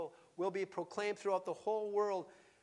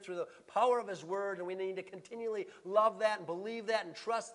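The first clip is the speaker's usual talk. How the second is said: raised, emphatic pulpit voice; forceful preaching; 3 semitones higher, 4 dB louder than usual. Real, not acted. Preacher to congregation on the nations, forceful preaching. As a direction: preach it out, landing hard on key words.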